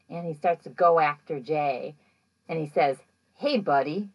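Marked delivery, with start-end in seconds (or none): 3.3-4.1 creepy. Retold or imitated. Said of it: "like, super creepy".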